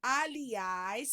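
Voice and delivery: Aliás with weight on final ás; stress on last syllable. Shown as a demonstration. Teacher helping pupils find the strong syllable, Aliás stressed on ás. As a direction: lean on the ás ending Aliás. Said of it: "sublinha o as".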